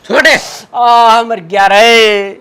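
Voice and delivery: pained yelling. Acted. Old man being beaten, crying out.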